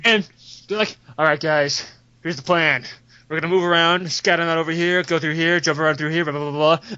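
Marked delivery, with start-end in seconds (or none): 1.2-6.9 low-pitched squad briefing; conspiratorial planner. Acted. Dwarf assassin briefing his squad in secret, conspiratorial. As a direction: lay out the plan in a low voice.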